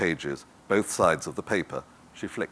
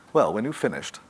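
tart; 3 semitones higher than usual. Acted. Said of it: "Daphne said tartly".

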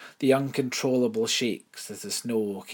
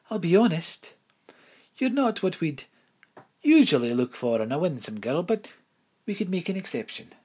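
higher, prim headmistress voice; 8 semitones higher, 5 dB louder than usual. Acted. Headmistress tells Imelda of the dead, higher prim voice. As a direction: speak as the proper headmistress, lifted high.

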